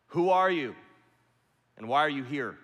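loud, commanding challenge from the wall; booming soldier. Retold or imitated. Roman soldier challenging the rabbi at the fortress, booming. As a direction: boom it down from atop the gate. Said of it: "his voice boomed out".

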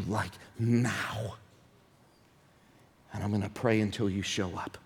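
hushed, intense plea to God; quiet desperate prayer. Acted. Habakkuk voiced as a desperate plea, hushed and intense. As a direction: whisper your desperation. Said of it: "Habakkuk says".

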